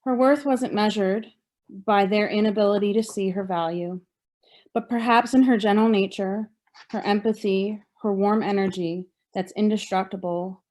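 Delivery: measured recital of a poem, phrase by phrase; poetry reading. Acted. Survivor reading poem from own book, measured poetry reading. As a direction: read your poem out with deliberate pauses.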